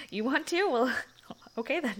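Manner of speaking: giggling amused reply; delighted giggle. Acted. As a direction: laugh in pleased surprise.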